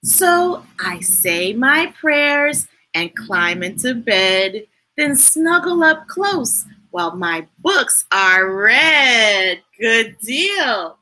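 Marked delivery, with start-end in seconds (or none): 0.0-9.6 gentle rhyming bedtime reading; reading to a child. A narrator's reading. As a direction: bedtime storytime voice. Reading book aloud to child.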